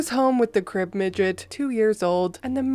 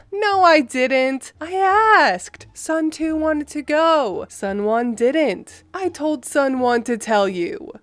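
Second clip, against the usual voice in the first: higher, slow indignant mom; mom's defensive voice; 4 semitones higher, slower than usual. Retold or imitated. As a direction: mom insisting she did nothing wrong. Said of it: "It was my mother".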